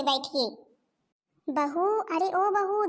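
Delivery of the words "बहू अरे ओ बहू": slow, drawn-out summons; calling out. Acted. Mother-in-law summoning her daughter-in-law, calling out. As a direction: call across the house, stretching the words.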